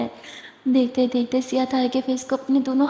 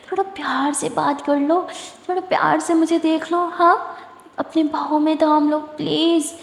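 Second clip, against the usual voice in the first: coaxing, slightly higher lover's plea; tender pleading; 3 semitones higher than usual. Acted. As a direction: wheedle gently for affection. Sweetheart pleads for affection.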